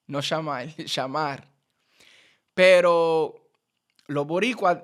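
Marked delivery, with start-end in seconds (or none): 0.1-1.5 Argentine sh. Shown as a demonstration. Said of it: "dicen sh".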